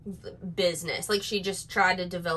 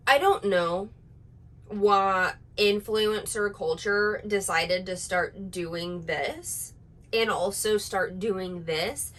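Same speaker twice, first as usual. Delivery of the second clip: mock influencer; slower than usual. Shown as a demonstration. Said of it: "And then everything you say has a question".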